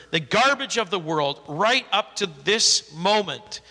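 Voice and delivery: scripture reading. Acted. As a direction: read the passage out to the congregation with weight. Reads the scripture passage aloud.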